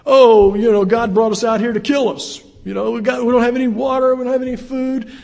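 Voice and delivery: preacher mimics the Israelites grumbling against God, mock whiny loud voice. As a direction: whine it like a grumbling crowd.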